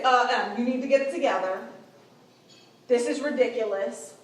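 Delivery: loud, exasperated sisterly scolding; angry telling-off. Shown as a demonstration. Upset sister confronts her younger sister in the moment, angry telling-off. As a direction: snap out a frustrated reprimand. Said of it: "I wanna say it like that because maybe I'm angry".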